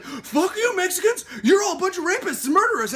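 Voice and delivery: high, loud mock heel rant; Donald Trump. Candidate baits the crowd like a heel, shouted mockingly. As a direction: hurl it like a wrestling villain's taunt. Imitating candidate as wrestling villain.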